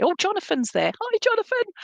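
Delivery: talking between sips of water; while sipping a drink. Real, not acted. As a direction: speak around a mouthful of water. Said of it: "I was just trying to talk and s-, drink and everything".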